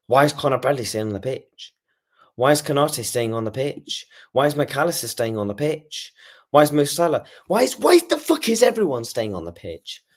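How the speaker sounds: exasperated fan building to a high outburst; rising exasperated rant. Real, not acted. Furious rant at his team's players.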